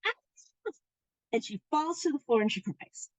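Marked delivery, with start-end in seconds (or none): 0.0-0.7 small, high-pitched pretend scream; quiet, squeaked-out imitation of a scream; mock scream. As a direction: let out a tiny high mock shriek. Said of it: "where she just screams".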